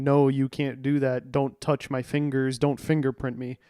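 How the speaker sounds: mild mock yell of protest; imitated yelling. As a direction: imitate a wrestler loudly objecting, only half yelling. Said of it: "in his Canadian accent yelling".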